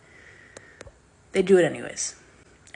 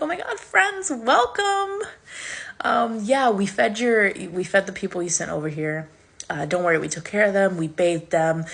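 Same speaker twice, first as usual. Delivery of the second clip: creepy welcome. Retold or imitated. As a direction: greet them sweetly like an odd cult host. Creepy Lotus Eaters welcome.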